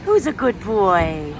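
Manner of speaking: slow, singsong praise for a dog; cooing at a little dog she found; sweet dog talk. Real, not acted. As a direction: coo it at the puppy.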